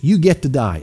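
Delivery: "you get to die" with weight on "get"; stress on get. Shown as a demonstration. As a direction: lean into "get" as a gift. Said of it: "And that's how I say that".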